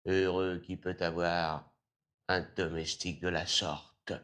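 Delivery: normal talking voice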